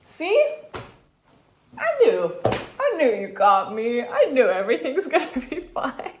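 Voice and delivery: high, loud, triumphant and joyful; excited relief. Retold or imitated. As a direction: cheer it out with relief. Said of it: "And I was like".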